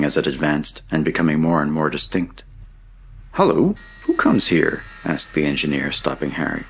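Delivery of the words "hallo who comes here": high-pitched hail down a mine shaft; lilting, raised-pitch hail; calling out. A narrator's reading. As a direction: call out high to someone unseen. Distant voice calls in mine shaft.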